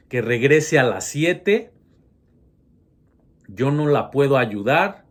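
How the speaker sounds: nervous teacher holding himself together; tense pleading teacher. Retold or imitated. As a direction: beg her to leave while staying courteous.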